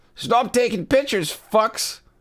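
put-on very high, shrill shout in a plain Californian accent. Narrating a story, voice Garth at a photographer: shouting, plain Californian accent. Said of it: "an unexceptional American B-list actor who had recently begun to crawl back a little bit of credibility after a series of disastrous, ... he shouts in his appealingly plain Californian accent".

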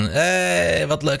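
acted, high, thrilled exclamation, "hey" stretched long. Retelling a birthday with Daniel Lippens: acting out past delight. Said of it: "Ik was helemaal blij van".

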